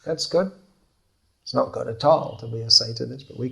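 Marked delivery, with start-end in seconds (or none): 0.1-0.5 warm approval. Shown as a demonstration. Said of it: "you can say".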